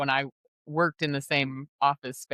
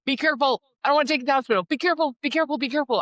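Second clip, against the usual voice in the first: much higher, louder anxious mother warning over and over; worried mom refrain; 10 semitones higher, 4 dB louder, much faster than usual. Retold or imitated. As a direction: nag like a mother fretting about hospital bills. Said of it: "my refrain was".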